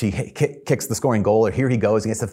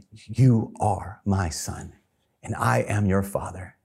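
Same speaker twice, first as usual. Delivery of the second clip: tender father's voice; 2 semitones lower, 4 dB quieter, slower than usual. Retold or imitated. Father's words, soft and slow.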